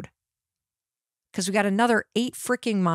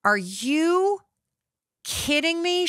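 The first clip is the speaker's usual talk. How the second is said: higher, incredulous mock-angry question; searing anger; 8 semitones higher, slower than usual. Daughter in the front seat, incredulous and angry. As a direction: imitate the furious daughter, pitched up. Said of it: "you could just feel the searing anger".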